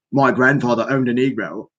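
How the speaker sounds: badly faked South African accent; mock a stuffy South African accent; Elon Musk. Showing listeners the billionaire's accent, crude South African impression. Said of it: "that kind of an accent".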